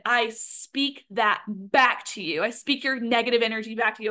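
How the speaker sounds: ordinary delivery, nothing marked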